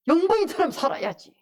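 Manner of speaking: loud, high urging; rousing preacher's call; forceful exhortation. Real, not acted. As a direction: urge the congregation emphatically.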